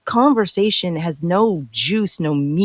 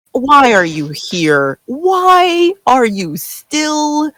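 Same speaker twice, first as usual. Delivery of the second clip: drawn-out, pleading why, slow; begging the character to explain, slowly; stretched, incredulous appeal to Ebony; exasperated plea; much slower than usual. Acted.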